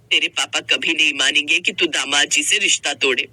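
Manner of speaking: resigned motherly counsel. Acted. Mother advises daughter on phone.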